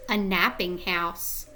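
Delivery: put-on gentle storybook read-aloud to young kids; reading to children. Reading picture book aloud.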